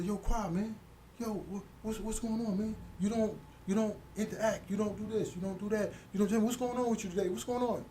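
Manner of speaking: mock worried buddy; imitating cellmate June. Cellmate June voiced in story.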